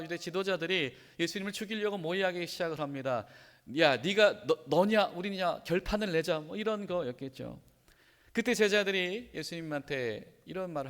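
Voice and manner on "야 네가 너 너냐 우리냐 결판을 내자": mock-angry showdown, louder and higher; confrontational challenge. Pharisees challenging Jesus while plotting, confrontational. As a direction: throw down a challenge as the hostile leaders.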